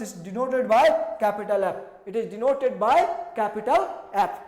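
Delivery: very slow, every word spaced out; slow dictation. Shown as a demonstration. Teacher dictating the symbol to students, very slow. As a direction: dictate it slowly for the notebook.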